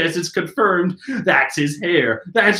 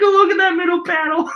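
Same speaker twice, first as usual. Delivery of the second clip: much higher and breaking with laughter; can barely get the words out for laughing; 13 semitones higher than usual. Real, not acted. Pointing viewers to the panel, laughing hard.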